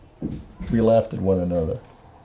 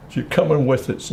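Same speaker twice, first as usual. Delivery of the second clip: lightly voiced child, higher pitched; five-year-old boy; 5 semitones higher than usual. Mother heading out with the boy, lightly imitated higher child voice. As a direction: repeat it as a small son would. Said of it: "Little John comes through, five years old".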